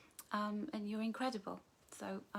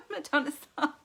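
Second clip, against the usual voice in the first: laughing; 7 semitones higher, 7 dB louder than usual. Real, not acted. Laughing through comment.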